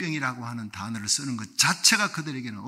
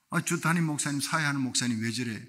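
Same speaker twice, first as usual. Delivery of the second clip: inner grumbling; 4 semitones lower, 5 dB quieter than usual. Retold or imitated. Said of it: "했더니".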